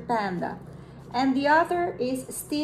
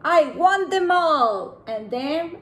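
slow, louder greedy whale voice; greedy killer whale; 2 semitones higher, 5 dB louder, slower than usual. Acted. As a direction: draw out the greedy demand slowly. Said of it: "said the killer whale".

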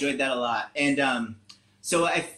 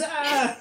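mild mock scream; 11 semitones higher than usual. A narrator's reading. Campers startled by a ghost-like shape, mild scream. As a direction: give a small storybook scream. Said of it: "everybody screams".

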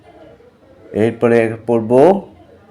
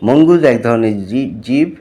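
put-on teacher reading vocabulary to children; spelling lesson for kids.

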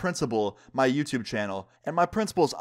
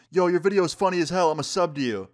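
mild mock yell, pitched up; raised-pitch shout-out, not full force; 5 semitones higher than usual. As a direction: imitate a classmate calling across the room. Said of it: "just yells out".

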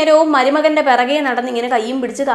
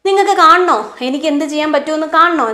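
1 clear enunciation; 3 semitones higher than usual. Retold or imitated. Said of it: "വളരെ clear ആയിട്ട് വാക്കുകൾ pronounce ചെയ്ത്".

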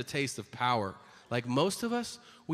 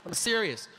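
ordinary delivery

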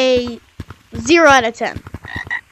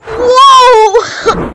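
sped-up squeaky glitch voice; high helium squeak; chipmunk voice; 8 semitones higher, 6 dB louder than usual. Real, not acted. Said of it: "you sounded like a chipmunk".

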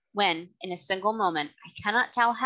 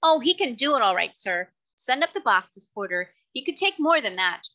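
loud, high, boastful driver; brash cab driver; 4 semitones higher, 4 dB louder than usual. Acted. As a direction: brush off the worry, cocky. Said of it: "driver's reply, loud and brash".

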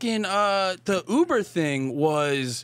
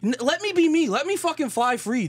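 higher, riled-up rant; heated outburst; 6 semitones higher than usual. Real, not acted. The speaker defending himself to cohost, worked-up rant. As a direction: let it burst out, defending yourself. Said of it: "You're melting down".

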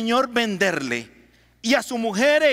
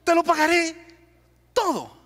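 begging; 5 semitones higher than usual. Acted. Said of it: "le rogaba diciendo".

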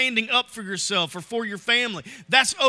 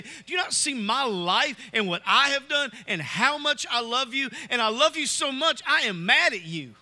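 pleading anger at God; 3 semitones higher than usual. Retold or imitated. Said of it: "say to God".

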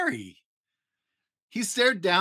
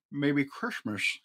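slow, softer, wondering; thoughtful Grinch; 4 dB quieter, slower than usual. A narrator's reading. Grinch realising something new, slow and wondering. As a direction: ponder it slowly, half to yourself. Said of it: "he thought".

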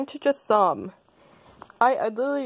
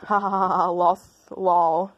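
taunting laugh; slower than usual. Acted. Taunting after the insult.

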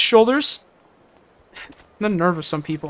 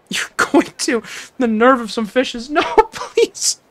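laughing plea; 4 semitones higher, slower than usual. Real, not acted. Laughing, mock pleading.

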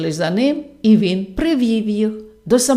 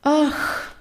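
sigh; 5 semitones higher, 4 dB quieter than usual. A narrator's reading. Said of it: "жінка зітхнула".

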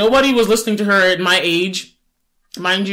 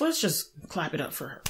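ordinary talk, nothing marked

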